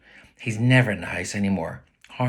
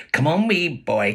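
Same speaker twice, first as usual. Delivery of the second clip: high, louder coaxing call; calling the puppy; 8 semitones higher, 5 dB louder than usual. Acted. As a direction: egg the puppy on.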